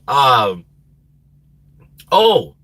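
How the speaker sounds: ordinary delivery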